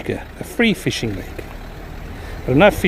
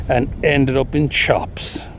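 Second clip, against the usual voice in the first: comic rhyme. Acted. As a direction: recite it like a cheeky poem. Recites comic nursery rhyme.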